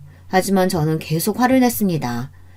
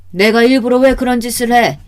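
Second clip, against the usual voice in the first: louder, higher offended retort; indignant denial; 5 semitones higher, 5 dB louder than usual. Acted. Mother accused by daughter, indignant denial. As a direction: protest your innocence forcefully. Mother denies doing it on purpose.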